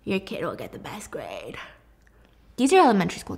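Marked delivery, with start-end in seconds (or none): 0.0-1.6 scheming mom. Retold or imitated. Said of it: "She says".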